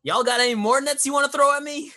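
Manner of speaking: loud, high, fast frontier taunt; old prospector taunt. Acted. Character taunts enemies.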